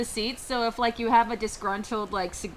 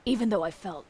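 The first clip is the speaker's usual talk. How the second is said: elf voice; 6 semitones lower, 9 dB quieter than usual. Acted. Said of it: "Talk like an elf".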